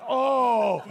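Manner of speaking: loud, high mortified oh; embarrassed oh. Retold or imitated. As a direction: gasp at your own mistake. Embarrassed reaction to spill.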